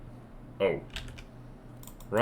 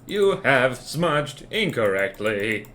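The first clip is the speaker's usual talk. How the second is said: cold dystopian robot manager; deadpan machine boss issuing orders; 3 semitones higher than usual. Acted. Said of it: "that stupid robot voice".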